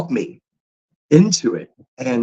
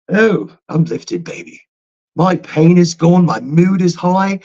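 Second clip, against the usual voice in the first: lifted; 2 semitones higher, slower than usual. Pretend. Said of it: "my accent changes".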